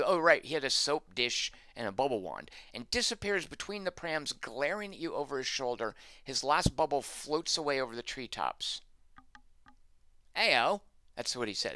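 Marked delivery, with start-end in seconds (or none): 0.5-8.8 reading game text aloud, starting high; story narration. Acted. 10.4-10.8 loud, high Cockney yelp; Cockney accent. Shown as a demonstration. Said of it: "that's my intriguing Cockney accent".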